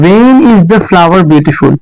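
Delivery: very slow, word by word; dictating to a class; slow dictation. Shown as a demonstration. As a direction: spell it out slowly for students. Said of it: "teacher dictating slowly".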